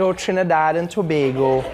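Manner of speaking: lightly mimicked Trinidadian sing-song; Trinidadian lilt. Host repeats audience's answer, light Trinidadian lilt. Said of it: "the sing-song vibe when you guys speak".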